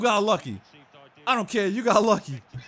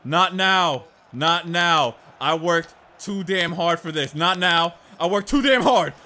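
desperate plea; 6 dB louder than usual. Real, not acted. Desperate as opponent attacks late.

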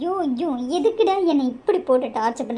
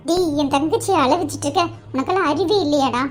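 angry scolding; 2 semitones higher than usual. Acted. Sister scolds man for making her cry.

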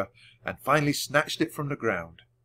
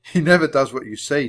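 loud, amused teasing; said laughingly; 3 semitones higher, 7 dB louder than usual. A narrator's reading. Jack teases Annie about her disobedient puppy, lightly amused. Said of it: "Jack said with a laugh".

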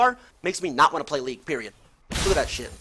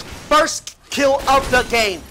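live play-by-play; 4 semitones higher, 4 dB louder than usual. Real, not acted. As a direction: call the kill for the crowd, stretching the ending.

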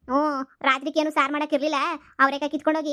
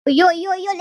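panicked cries; 5 semitones higher, 7 dB louder than usual. Acted. Fleeing the grandma.

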